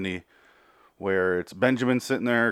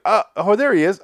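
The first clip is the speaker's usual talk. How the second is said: higher, louder excited outburst; excited recognition; 10 semitones higher, 8 dB louder than usual. Retold or imitated. Spotting a lookalike of Evan Peters, excited and loud. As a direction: spot a friend in a crowd. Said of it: "And I was like".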